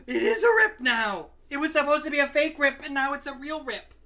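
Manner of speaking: loud, high dismayed exclamation; real shocked outcry. Real, not acted. Finding a real rip in his jeans, loud shock. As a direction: gasp and cry out in shock.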